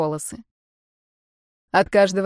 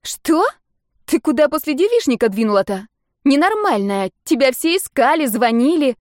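higher, louder exasperated scolding; friend's voice, raised and indignant; 5 semitones higher, 4 dB louder than usual. A narrator's reading. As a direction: tell her off across the phone.

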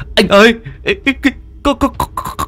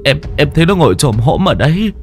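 higher, shaky frightened account; trembling retelling; 7 semitones higher than usual. Acted. Henchman to boss describing the ghost, trembling. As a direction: relive the horror as you tell it. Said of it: "run run kể lại".

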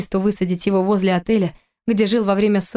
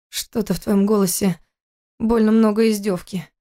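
хрип пересохшим горлом; выдави слова через пересохшее горло; хрипло. Acted. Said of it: "прохрипел Кирилл, в горле отчаянно пересохло". (хриплый, с трудом говорящий голос)

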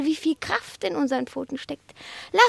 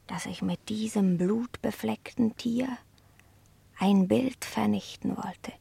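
hushed confession; 3 semitones lower than usual. Acted. Cat's dark confession, hushed.

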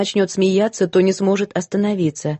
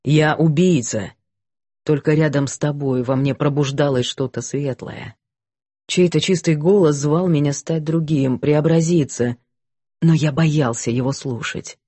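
low, somber confessing voice; a guilty man baring his soul; repentant man; 3 semitones lower than usual. Acted. Гэвин исповедуется Милисент. (кающийся мужчина, низкий голос)

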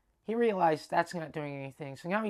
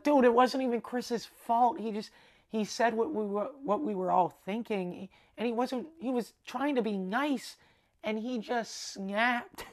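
higher-pitched, insistent retelling; urgent defence; 5 semitones higher than usual. Retold or imitated. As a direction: imitate a friend jumping in to explain. Dave jumps to defend him, retold.

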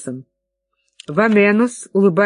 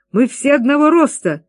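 excited cry; 7 semitones higher than usual. Acted. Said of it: "вскричал Мартинес".

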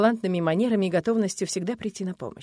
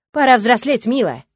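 louder, cruel taunt; threatening; 4 semitones higher, 10 dB louder than usual. Acted. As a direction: taunt her with menace. Husband threatening assault. (жестокая угроза, громко)

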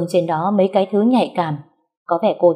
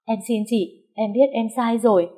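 frightened begging; 4 semitones higher than usual. Acted. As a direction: plead timidly. Mistress begging.

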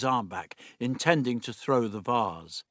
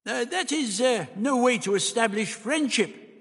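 high, hesitant objection; protesting; 12 semitones higher, 3 dB louder than usual. A narrator's reading. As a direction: protest in a raised, faltering character voice. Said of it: "The doctor also protested".

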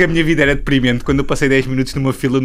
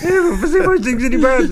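high squeaky cartoon voice; cartoon kid voice; 12 semitones higher than usual. Mocking cartoon voice talk.

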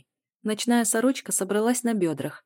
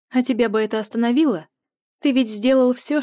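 accusing; 6 semitones higher, 8 dB louder than usual. A narrator's reading. Heroine accusing him, fast and loud.

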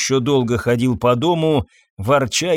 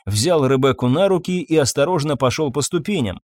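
plain reading voice

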